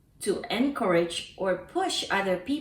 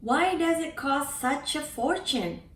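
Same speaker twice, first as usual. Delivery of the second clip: higher, puzzled asking; baffled question; 5 semitones higher than usual. Shown as a demonstration. Teacher translates a baffled question about a price. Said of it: "expression of bafflement".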